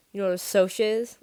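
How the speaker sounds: loud, angry challenge; shaking with rage. A narrator's reading. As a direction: throw it back angrily. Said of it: "my voice shaking with rage".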